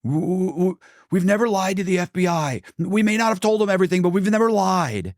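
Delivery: high, stammering mock husband voice; mocking the husband's high flustered denial. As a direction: squeak it out like a caught liar. He stands up, he goes.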